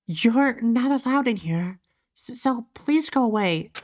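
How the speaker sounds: lightly lisped character voice; timid, halting game voice with a slight lisp. Acted. Shy Coco warning intruders to go away, lisping. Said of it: "gonna have to take a lisp".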